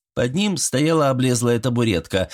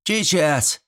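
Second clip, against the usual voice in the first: put-on boy yelling; 7 semitones higher than usual. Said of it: "заорал пацан откуда-то".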